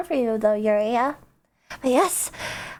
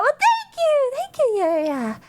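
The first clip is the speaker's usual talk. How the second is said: excited thanks; 10 semitones higher, slower than usual. Real, not acted. Thanking the raider.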